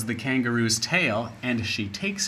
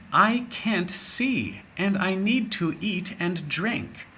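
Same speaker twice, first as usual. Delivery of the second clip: put-on sad old wombat; 5 semitones higher than usual. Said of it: "the wombat answers".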